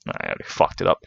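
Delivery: a soft, breathless whisper to yourself; whispered aside. Real, not acted. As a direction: whisper it under your breath after the slip. Muttering to self after a mistake.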